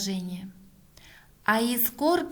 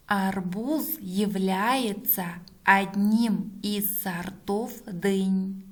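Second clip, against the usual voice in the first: reading back slowly; slower than usual. Shown as a demonstration. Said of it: "Проверяем".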